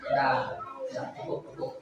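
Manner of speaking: low, very soft hushing; quiet, low-pitched comforting; soothing. Real, not acted. Calming a crying child down.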